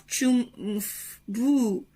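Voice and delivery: playful zooms and bumps; mimed flight noises. Pretend. Parent playing Superman with the soup, mimed whooshes. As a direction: make the spoon's flight in sounds.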